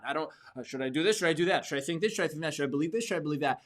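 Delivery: wavering string of anxious self-questions; mock indecisive. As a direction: dither between options, one question after another. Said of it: "you're indecisive. You can't make up your mind".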